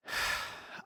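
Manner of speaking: soft breathy happy sigh; Ty sighing happily at how well the night went; contented sigh. Acted. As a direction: let out a long satisfied breath. Contented sigh after the evening.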